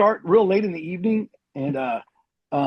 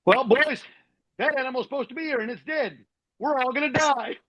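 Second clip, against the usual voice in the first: high-pitched mock-British soldier; lightly put-on British accent, higher than usual; 7 semitones higher than usual. British soldier announcing doom over a dead camel, mock British accent. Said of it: "you know, the British accent".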